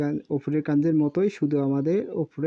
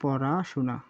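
slow dictation; much slower than usual. Shown as a demonstration. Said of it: "teacher dictating meaning slowly".

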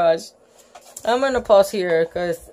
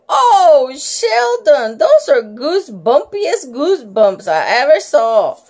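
delighted; 3 semitones higher, 4 dB louder than usual. Acted. Lucille beaming at Sheldon.

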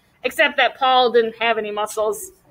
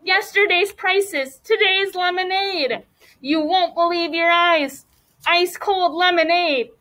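high, slow street-vendor call; sales pitch; 5 semitones higher than usual. Acted. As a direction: hawk it to passers-by like a lemonade seller. Kids' lemonade stand sales pitch.

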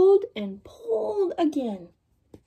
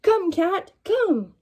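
higher calling voice; dog calling the cat; 7 semitones higher, much slower than usual. Acted. Dog calling the cat for help, high call. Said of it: "the dog called the cat".

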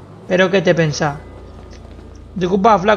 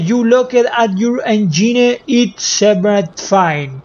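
mock English; 2 semitones higher, much slower than usual. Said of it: "se sabe que sabe inglés".

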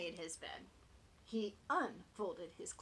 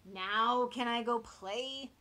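eager piglet; 4 semitones higher, 10 dB louder, slower than usual. Acted. Piglet pleading.

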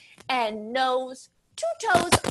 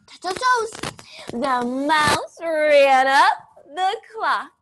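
a little loud; 3 semitones higher, 3 dB louder, slower than usual. Acted. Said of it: "do it a little loud".

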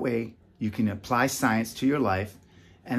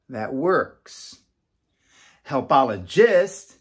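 put-on slow, deliberate, word by word for kids; drawn-out classroom definition; slow teaching definition; much slower than usual. Shown as a demonstration. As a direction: spell it out slowly for kindergartners. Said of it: "Now, we go like this".

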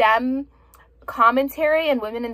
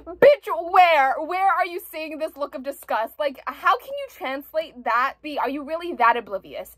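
exasperated retort; 2 semitones higher than usual. Retold or imitated. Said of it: "I'm like".

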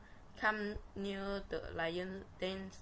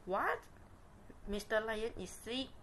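surprised; 3 semitones higher than usual. Acted. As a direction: gasp it out in shock. Animals hear the news.

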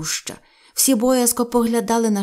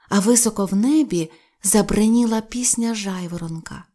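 usual speaking voice

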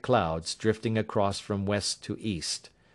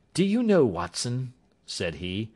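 higher, assured detective voice; Holmes; 4 semitones higher than usual. A narrator's reading. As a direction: Sherlock Holmes reassuring his worried client, higher assured voice.

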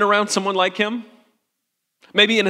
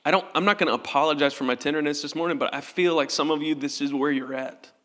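softer, tearful confession; weepy; 4 semitones lower, 7 dB quieter than usual. Real, not acted. Pastor confessing his own gutted faith to the church, softer and tearful. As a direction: hold back tears as you speak. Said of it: "I'm gonna be weepy the whole time".

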